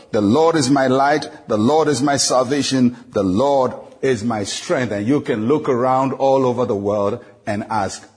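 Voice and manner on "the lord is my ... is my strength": a bold, ringing proclamation, loudest on the first Lord; bold declaration. Acted. Pastor leading believers in a bold confession, proclaiming. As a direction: declare it boldly, with confidence. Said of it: "make the same bold statement".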